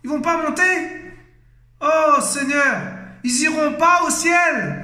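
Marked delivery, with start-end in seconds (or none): 1.8-4.8 fearful cry. Real, not acted. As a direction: cry out to God, shaken. Cri au Seigneur, effrayé. (cri lent et effrayé vers le Seigneur)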